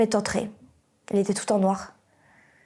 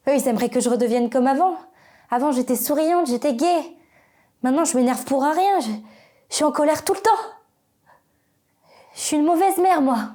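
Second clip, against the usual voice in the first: higher-pitched, mounting agitation; agitated distress; 4 semitones higher than usual. Acted. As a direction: let the self-reproach push the pitch up. Distressed account of changed life.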